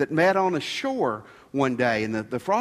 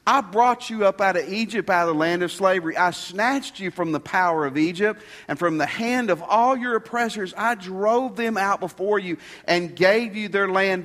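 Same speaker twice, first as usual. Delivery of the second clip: raised, emphatic preacher's reading; forceful scripture reading; 4 semitones higher, 4 dB louder than usual. Acted. Preacher reading the prophet's message to the congregation, proclaiming forcefully. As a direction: proclaim it as God's own words. Reads God's words from scripture.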